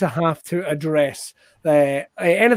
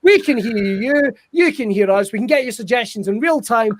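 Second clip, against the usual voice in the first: ordinary talk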